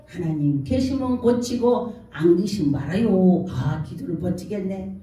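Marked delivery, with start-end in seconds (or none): 0.1-3.4 offhand prayer. Retold or imitated. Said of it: "이러고서 하늘을 쳐다보고".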